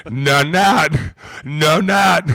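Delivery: high, insistent denial; hammed-up innocent protest; mock denial. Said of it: "I'm like".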